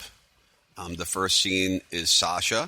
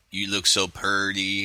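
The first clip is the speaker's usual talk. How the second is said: lightly imitated backwoods hick accent; a touch of Deliverance twang on PURTY; mock country-hick accent. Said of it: "really exaggerated kind of Deliverance kind of accent".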